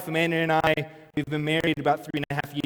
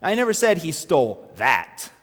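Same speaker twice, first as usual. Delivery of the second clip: "said" hit harder than the rest; stress on said. Shown as a demonstration. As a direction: punch the word "said". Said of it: "is that one sentence Or is that five sentences".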